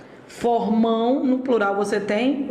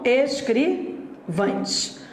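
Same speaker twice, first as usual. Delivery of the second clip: slow demo word; much slower than usual. Shown as a demonstration. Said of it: "plural de escrivão".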